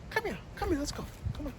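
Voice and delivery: very high, soft sing-song call; high-pitched kitty call; high call to the cat. Real, not acted. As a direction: coax the cat over with a high lilting call. Calling the cat again.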